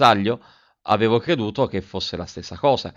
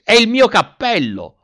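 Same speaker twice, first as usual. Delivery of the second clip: high, loud, slow cry of dismay; anguished cry; 13 semitones higher, 7 dB louder, slower than usual. A narrator's reading. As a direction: wail it out in panic over the lost hat. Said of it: "gridando con angoscia".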